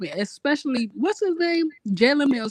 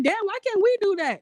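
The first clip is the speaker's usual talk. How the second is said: frustrated; 9 semitones higher than usual. Retold or imitated. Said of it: "and I'm like".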